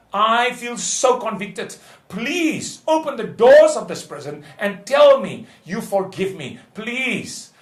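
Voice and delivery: begging. Retold or imitated. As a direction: re-enact a father begging forgiveness. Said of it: "I beg you".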